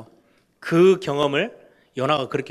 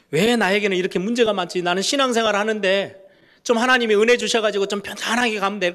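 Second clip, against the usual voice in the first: higher and louder, a whiny grumbling voice; complaining question; 6 semitones higher, 4 dB louder than usual. Retold or imitated. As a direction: grumble as a frustrated believer would. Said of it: "질문합니다". (신앙생활이 힘든 성도가 하나님께 높고 크게 불평하듯)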